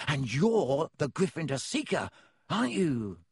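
hushed admiration for his hero; in awe. A narrator's reading. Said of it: "said Colin in awe".

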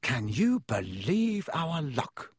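slow, dejected disbelief; miserable. A narrator's reading. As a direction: drag it out glumly. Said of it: "said Ron miserably".

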